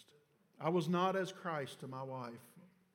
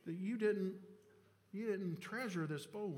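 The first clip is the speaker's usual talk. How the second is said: nagging; 5 semitones higher than usual. Retold or imitated. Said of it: "I just kept nagging her".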